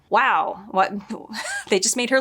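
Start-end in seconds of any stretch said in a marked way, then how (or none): 0.1-0.9 sudden shouted disbelief; stunned disbelief. Real, not acted. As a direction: blurt it out in shock. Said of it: "And I was like".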